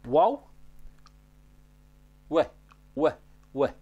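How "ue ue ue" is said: "Ue" as a "we" glide through a small lip opening; "Ue" with a W, not a V; rounded-lip W. Shown as a demonstration. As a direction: round the lips tightly for "Ue". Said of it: "Se lasă un orificiu mic".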